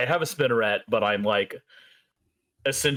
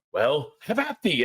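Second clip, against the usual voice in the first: bold swashbuckling bravado; 3 semitones higher than usual. Acted. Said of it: "and I say".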